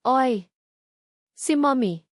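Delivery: sudden excited cry of recognition; surprised child. A narrator's reading. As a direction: point and blurt it out like a kid. Boy recognizes mother in sketch.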